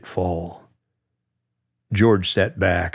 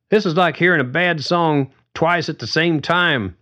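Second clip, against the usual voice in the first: a lightly higher voice for Carly; Carly voiced higher; 10 semitones higher than usual. A narrator's reading. Carly joking to George about the echo, lightly higher voice. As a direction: read Carly's line up high, wry. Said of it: "Carly said".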